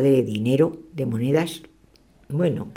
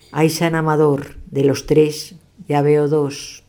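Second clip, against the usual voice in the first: slow lament; much slower than usual. Acted. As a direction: drag out the rhyme like a sighing chant. Same rhyme second dish.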